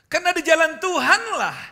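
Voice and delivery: preaching at full force. Acted. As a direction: proclaim it to the congregation.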